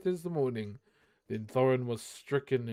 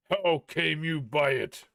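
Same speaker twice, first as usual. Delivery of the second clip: a touch of rising rage, slightly louder; mild gathering rage; 4 dB louder than usual. Acted. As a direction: Thorin demanding an answer, understated anger. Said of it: "shouted Thorin in gathering rage".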